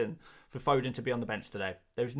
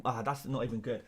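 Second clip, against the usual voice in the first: ordinary delivery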